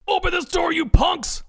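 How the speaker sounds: high, furious yell; angry exclaiming. A narrator's reading. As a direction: shout it while beating on the car. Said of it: "exclaims Ed".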